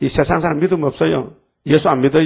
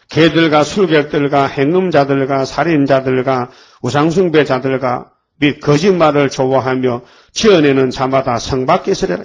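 scripture reading; 3 semitones lower than usual. Acted. Reads scripture in sermon.

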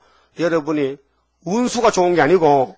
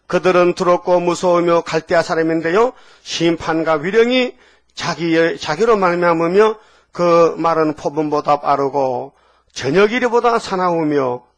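slow, measured Bible reading; scripture reading; slower than usual. Acted. Preacher reads Habakkuk to the congregation, slow solemn reading. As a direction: read the verse out slowly and deliberately.

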